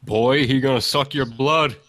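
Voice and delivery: mock parental warning. Parent warns kid not to let the vampire in, mock stern warning. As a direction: lightly play a parent warning a child, drawn out.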